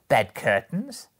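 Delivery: loud, high-rising amused repeat; amused echo. A narrator's reading. Woman laughingly echoes Joe's question, amused. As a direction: echo it with a laugh just before, lifting high. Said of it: "returning and laughing".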